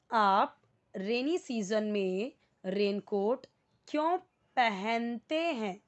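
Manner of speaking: slow, with क्यों drawn out and stressed; slow, stressed translation. Shown as a demonstration. Teacher translating the question slowly, stressing क्यों. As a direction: lean on क्यों so students notice where it sits. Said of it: "समझा इतना?".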